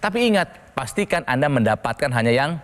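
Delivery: upbeat hard-sell ad read; infomercial. Acted. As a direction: pitch it like a TV shopping host. Host switches into product pitch.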